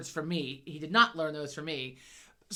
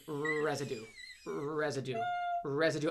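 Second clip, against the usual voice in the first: low "residue", drawn out on the first sound, repeated as a set phrase; child's repeated catchword; 3 semitones lower, 5 dB quieter than usual. Retold or imitated. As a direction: imitate a boy savouring "residue", rolling into the R. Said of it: "that's how he says it".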